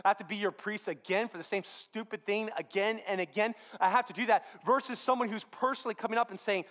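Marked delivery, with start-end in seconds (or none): 0.1-4.4 mildly exasperated lawyer, acted; a touch of put-upon grievance; frustrated, upset. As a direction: complain about having to do it repeatedly. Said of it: "this frustrated lawyer who's just so upset".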